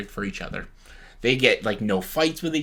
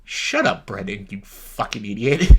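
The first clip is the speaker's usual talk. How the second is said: mock yell; 4 semitones lower than usual. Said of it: "I'm like".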